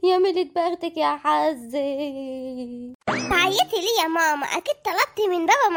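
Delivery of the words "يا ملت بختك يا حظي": comic wailing. Acted. Wife cries after husband leaves.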